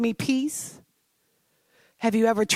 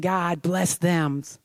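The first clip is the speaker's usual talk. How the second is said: mock-sweet blessing; 3 semitones lower, much slower than usual. Mocking her old polite prayers to the congregation, slow and sugary. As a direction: say it like a dutiful, hollow nicety. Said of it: "kind words".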